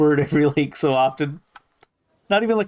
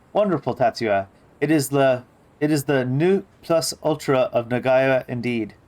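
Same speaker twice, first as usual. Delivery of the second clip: put-on a light touch of French accent, grand and pleased; mild French accent. Daddy praising the chicken wings in a light French accent. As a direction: savour the words with a faint French lilt. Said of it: "a fresh French accent".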